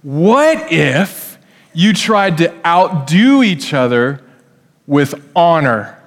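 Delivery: slow, gentle parental suggestion. Retold or imitated. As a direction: parent gently nudging kids toward honor. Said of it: "what do mom and dad say".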